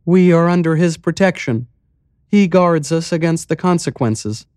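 high, light mayor voice; lifted voice for the calm, strange mayor; village mayor. Acted. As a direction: play the eerily cheerful mayor.

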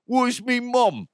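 high, drawn-out mock British yob; rough British accent. Shown as a demonstration. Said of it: "Instead of like".

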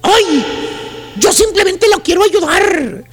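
slow, cynical sales pitch; a hint of a fake caring saleswoman. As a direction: say it slyly, drawn out. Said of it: "con voz cínica te dice".

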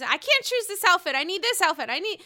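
mock high-pitched dithering; Wendy. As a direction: imitate a fussy wardrobe panic. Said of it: "Eddie comes out as Wendy".

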